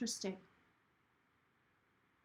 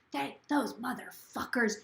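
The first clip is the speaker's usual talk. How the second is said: mimicking a mad old woman; slower than usual. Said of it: "She was so mad".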